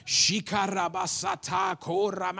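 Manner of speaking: mock tongues prayer; speaking in tongues. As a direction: rattle off strange syllables. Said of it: "I start praying in the Spirit".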